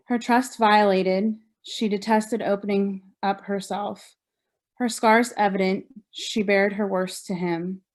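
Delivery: measured recital of a poem, phrase by phrase; poetry reading. Acted. Survivor reading poem from own book, measured poetry reading. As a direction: read your poem out with deliberate pauses.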